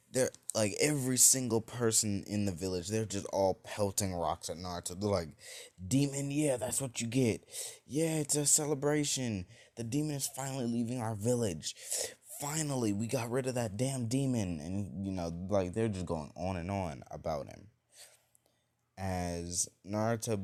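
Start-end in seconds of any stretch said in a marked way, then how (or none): 5.9-14.6 high-pitched mocking cheers; gleeful jeering. Villagers pelting the leaving boy with rocks, jeering. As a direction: crow over it like a jeering crowd, pitched up.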